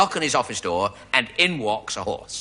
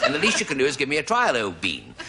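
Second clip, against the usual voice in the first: posh horse; 2 semitones higher than usual. Acted. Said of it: "a bit posh, actually, this horse".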